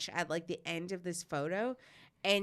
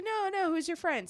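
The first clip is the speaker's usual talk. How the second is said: A singer; 10 semitones higher than usual. Retold or imitated. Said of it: "He's like".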